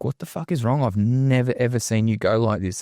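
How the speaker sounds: scared family member. Retold or imitated. Family member finds him punching the cupboard, mildly scared. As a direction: voice her shock, up in the voice. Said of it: "she was scared".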